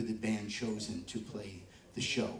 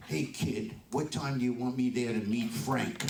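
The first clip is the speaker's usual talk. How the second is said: tough New York mom. Retold or imitated. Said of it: "And she talked just like that".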